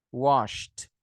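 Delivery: "washed" said "wosht", one syllable; SH plus T ending. Shown as a demonstration. Teacher applying the same rule, "washed" ending in T. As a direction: finish "washed" on a clean T after the SH. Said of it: "A mesma coisa no S H".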